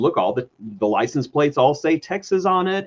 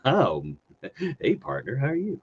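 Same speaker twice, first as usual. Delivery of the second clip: put-on Texas accent; 5 dB quieter than usual. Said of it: "watching myself on the screen right now going".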